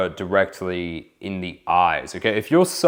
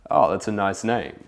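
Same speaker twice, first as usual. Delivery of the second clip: playful. Shown as a demonstration. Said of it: "playfulness and enjoyment".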